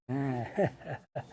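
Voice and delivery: soft slow villain chuckle; quiet slow chuckle. Shown as a demonstration. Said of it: "એમ જોરથી નહીં, ધીમે ધીમે, શાંતિથી".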